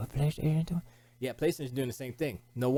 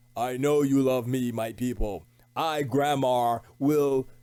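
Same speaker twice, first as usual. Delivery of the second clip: caveman warrior voice, lower; 3 semitones lower, 3 dB louder than usual. Acting out a skit as a prehistoric warrior named grammar: prehistoric warrior voice. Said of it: "like a prehistoric, you know, warrior name".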